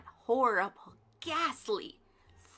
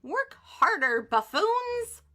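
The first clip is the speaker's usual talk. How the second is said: loud, rising bark at the workers; yelled order; 8 semitones higher, 7 dB louder than usual. A narrator's reading. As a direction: yell at the lazy buffoons. Witch yells at workers.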